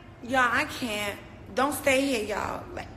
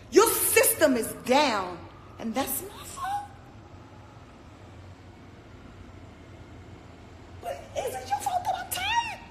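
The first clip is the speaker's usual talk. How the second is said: laughing in disbelief, much higher; incredulous laugh. Real, not acted. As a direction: laugh it off, exasperated and sarcastic.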